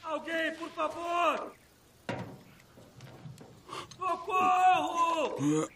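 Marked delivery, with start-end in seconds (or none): 4.0-5.7 damsel in distress. Acted. Captive begging for help.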